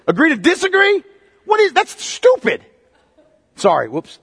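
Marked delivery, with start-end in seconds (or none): 0.1-2.7 high, scoffing disbelief; a real incredulous scoff, pitched high. Real, not acted. Preacher scoffing at the phrase.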